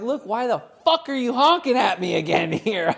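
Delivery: half-laughing angry rant; loud irritated rant. Retold or imitated. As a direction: vent at her, loud but half laughing. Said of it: "certainly loud enough".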